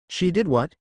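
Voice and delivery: sharp rise of disbelief; shocked. A narrator's reading. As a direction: blurt it out, caught off guard. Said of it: "Izuku said in shock".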